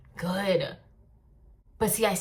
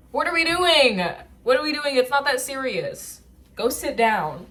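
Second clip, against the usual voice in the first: exasperated outburst; 6 semitones higher, 6 dB louder than usual. Real, not acted. Scolding herself, loud and high.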